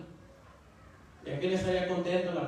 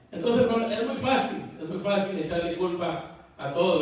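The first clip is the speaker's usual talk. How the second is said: preacher exhorting brothers, raised and emphatic; fervent preaching; 2 semitones higher, 4 dB louder than usual. Real, not acted. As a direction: drive the point home to the congregation.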